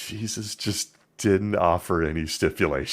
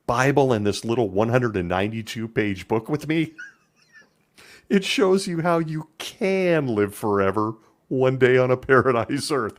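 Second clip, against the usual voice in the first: Samaritan as Witness; 3 semitones higher, 3 dB louder than usual. Acted. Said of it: "he whispers".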